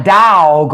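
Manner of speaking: DOG drawled long as "dawg"; long country "da-awg"; down-South dog. Shown as a demonstration. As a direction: stretch the vowel of "dog" like down South. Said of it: "when you down south".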